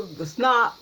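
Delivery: "snot" said with a short o like "not", a fumbled word; misnamed word. Shown as a demonstration. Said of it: "whatever you call it".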